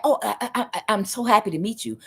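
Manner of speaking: mock sugary greeting, fast; a big fake-smile hello; fake friendly. The person greeting you with a big fake smile, mock sweet. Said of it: "be like".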